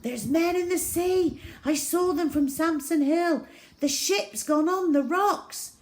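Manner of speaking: high, urgent report after running; breathless alarm. A narrator's reading. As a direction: gasp out the news, alarmed. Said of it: "running along the beach towards us breathless".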